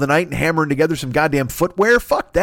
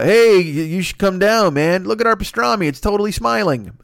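laid-back restaurant guy. Retold or imitated. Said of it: "who are just like".

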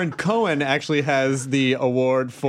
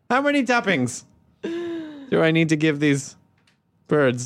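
mock pondering. Host repeating the lullaby question, mock-serious pondering. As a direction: pause heavily before the last word.

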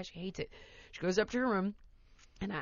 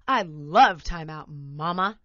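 put-on cheeky toddler; 4 semitones lower, 6 dB louder, slower than usual. Child's cheeky reply.

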